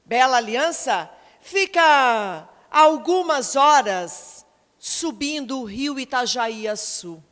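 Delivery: lightly acted local giving vague directions; lightly voiced local resident. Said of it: "Estes respondiam".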